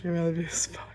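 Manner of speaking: soft whispered aside. Real, not acted. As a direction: breathe it out under the breath.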